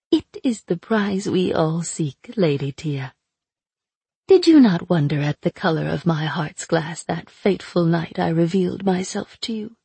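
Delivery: sly, mocking captive witch; taunting sorceress voice. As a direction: purr it out like a cruel captor. Aina teasing.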